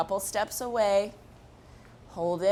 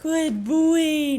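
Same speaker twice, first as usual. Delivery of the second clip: high-pitched praise voice; 6 semitones higher, 6 dB louder, much slower than usual. Real, not acted. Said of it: "that high-pitched voice that I've been doing".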